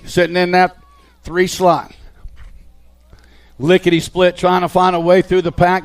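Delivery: brisk race call, steady and driving; live play-by-play. Acted. Announcer calling the BMX race to the crowd, live play-by-play. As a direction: call the riders through every corner.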